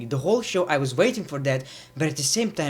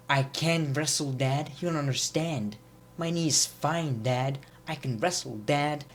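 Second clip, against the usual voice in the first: softer, mildly whiny son pleading; whiny plea; 4 dB quieter than usual. Retold or imitated. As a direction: beg your dad, lightly whining. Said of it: "he's very whiny".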